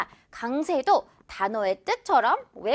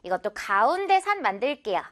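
whisper; 2 semitones lower than usual. Real, not acted. Teacher whispers instruction.

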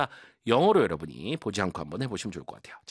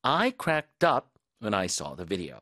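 slow model reading; 3 semitones lower, much slower than usual. Shown as a demonstration. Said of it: "자, 다시 한번".

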